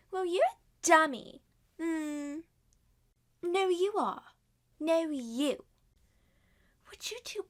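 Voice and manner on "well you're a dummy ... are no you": louder, higher playground taunt; childish squabble. Acted. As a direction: bicker like a cheeky kid. Children bickering at dinner.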